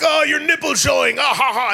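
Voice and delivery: high, loud jeering with a laugh; mock the friend, cackling; drunk mocking laugh.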